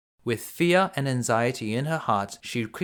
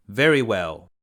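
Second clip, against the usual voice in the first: the beast sighing; 3 semitones lower, 4 dB louder than usual. A narrator's reading. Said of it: "said the beast with a great sigh".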